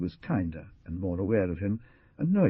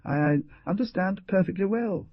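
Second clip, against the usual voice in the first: put-on protesting old woman; 11 semitones higher than usual. A narrator's reading. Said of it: "protested the old woman".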